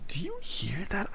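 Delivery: hushed whisper, rising at the end; nervous whisper. Real, not acted. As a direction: whisper as if listening for danger. Whispering about noise outside.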